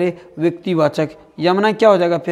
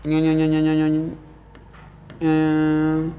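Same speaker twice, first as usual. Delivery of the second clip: imitated zigzag sound; 4 semitones lower, 5 dB quieter than usual. Shown as a demonstration. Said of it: "देख रहे हैं टेढ़ी टेढ़ी इस तरह से".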